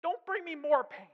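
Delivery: high, loud, pained pleading; a tormented man begging; mock shriek. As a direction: cry out in torment. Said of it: "he runs out shrieking".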